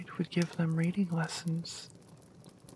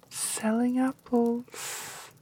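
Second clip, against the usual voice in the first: put-on higher, lightly squeaky old crone; squeaky old woman; 4 semitones higher, slower than usual. Disguised queen calling through the door, lightly squeaky. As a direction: pitch it up like a frail old apple seller. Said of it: "came a squeaky voice".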